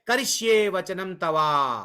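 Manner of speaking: slow, drawn-out Sanskrit recitation; measured scriptural quotation; verse recitation. Acted. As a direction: recite the sacred words slowly, stretching each one. Reciting Arjuna's closing Sanskrit verse.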